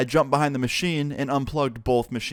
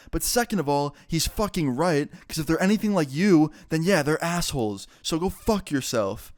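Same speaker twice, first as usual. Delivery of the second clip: retold mom's telling-off, pitch raised; a touch of indignant fury, higher voice; mildly angry; 4 semitones higher than usual. Wilson's mom telling off the rude lady, mildly angry. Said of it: "did not like that one bit".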